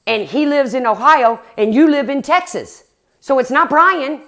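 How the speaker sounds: soothing a scared caller, replayed; retold reassurance. Streamer retelling how she calmed the bedridden woman, mildly reassuring. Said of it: "I tried to calm her down".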